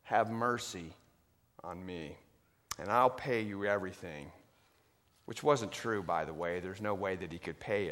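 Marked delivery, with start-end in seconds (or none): 0.0-4.3 pleading. Acted. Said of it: "he's crying".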